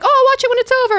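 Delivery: a hint of carefree girlfriend; mock airy dismissal; casual friend quote. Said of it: "She's like".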